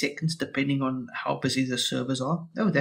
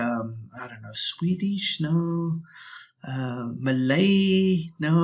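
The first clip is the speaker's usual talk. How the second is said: muttered aside. Real, not acted. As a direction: mutter it to yourself while scrolling. Muttering to himself while choosing.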